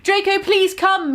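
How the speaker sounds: high, slow mock plea; hammed-up pleading. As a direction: beg him, high and slow. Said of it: "he began to cry".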